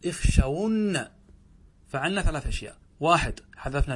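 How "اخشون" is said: "اخشون" louder, with a drawn-out ending; demonstrated form. Shown as a demonstration. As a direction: model "اخشون" firmly for students, lengthening the end. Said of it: "هكذا". (نطق «اخشون» بصوت أعلى مع إطالة آخرها)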